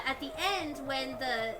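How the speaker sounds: normal talking voice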